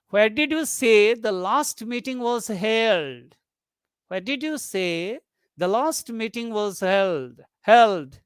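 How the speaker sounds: asking for a repeat, "held" lifted; slow question, drawing out HELD; rising tone. Shown as a demonstration. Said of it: "there rising tone is used".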